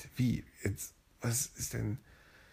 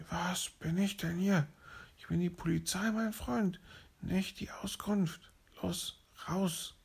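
whispered bossy policeman; 9 semitones higher than usual. Acted. Police throws the leopard out.

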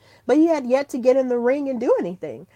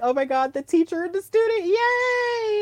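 rising higher and higher into a squealy "yay"; excited gush; 10 semitones higher than usual. Retold or imitated. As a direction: gush like a proud fangirl. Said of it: "And I'm just like".

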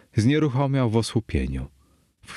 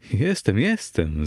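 mildly exclaimed insistence; exclaiming; 2 semitones higher than usual. Acted. Narrator assuring Fortunato he is a mason, mild exclamation. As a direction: insist with swooping pitch on each word. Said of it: "zawołałem".

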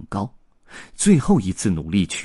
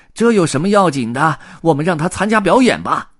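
loud, high eager crowd member; chattering onlooker; 9 semitones higher, 7 dB louder than usual. A narrator's reading. Circus worker urges putting pig in show, chattering. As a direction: push the idea over the hubbub. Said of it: "七嘴八舌地议论起来".

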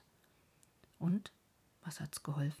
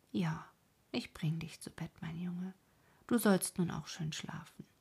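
tender comfort; 3 semitones lower than usual. Acted. Wife comforts crying husband.

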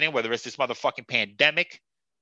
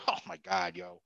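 breathless laughing exclamation; 9 semitones lower, 11 dB quieter than usual. Real, not acted. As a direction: laugh it out in disbelief.

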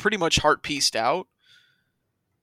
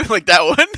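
loud cartoon running sound; a drowning-like cartoon flutter; 4 semitones higher, 11 dB louder than usual. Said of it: "It sounds like someone's drowning".

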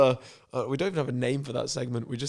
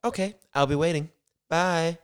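lightly put-on drifting American accent; amateur accent sliding towards American; melted American accent; 4 semitones higher than usual. Lisa signing off the phone call, melted American accent. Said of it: "like, melted American".

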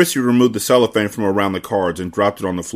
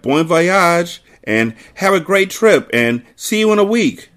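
much higher, light mock calling; lightly voiced crowd farewells; called out; 8 semitones higher, slower than usual. A narrator's reading. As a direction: dock crowd calling to the ship, mild call. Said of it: "calling out things like".

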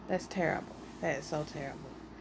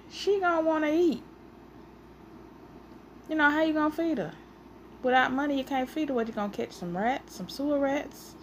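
teasing challenge; 6 semitones higher, faster than usual. Retold or imitated.

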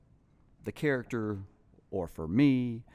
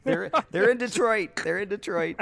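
excited laugh; 11 semitones higher, 7 dB louder than usual. Real, not acted. Laughing about grandchild's birth.

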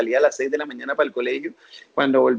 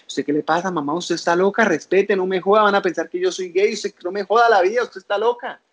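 angry retort; 4 semitones higher than usual. Retold or imitated. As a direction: snap back at mom like a furious teenager. Retold angry reply to mother.

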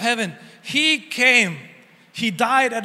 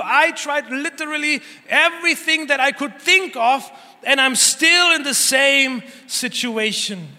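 higher, pleading voice of someone at their wit's end; despairing cry; 4 semitones higher than usual. Acted. A believer overwhelmed by problems crying out to God, higher and pleading. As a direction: plead with God as if all options are gone.

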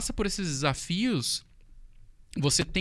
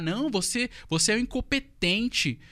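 humiliating scorn; 5 semitones higher than usual. Retold or imitated. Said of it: "ela começava a me humilhar".

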